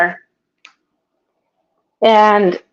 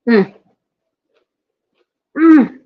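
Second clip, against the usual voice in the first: savoring hum; 3 semitones higher than usual. Real, not acted. Tasting a bite.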